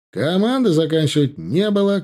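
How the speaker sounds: loud sergeant shout. Acted. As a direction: call it out to stragglers. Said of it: "крикнул им тут же".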